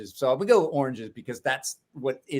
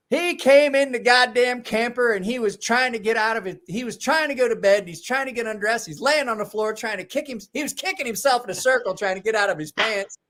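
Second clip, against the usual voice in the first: raised, higher scolding rant; exasperated mother scolding, raised; 5 semitones higher than usual. Retold or imitated. Woman scolding about drunk guest.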